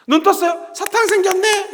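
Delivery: high, loud mock surprise to a class; acted teacher. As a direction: exclaim it to little pupils. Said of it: "그때 선생님 사탕을 갖다 놔요". (아이들에게 높고 크게 감탄하는 선생님 말투)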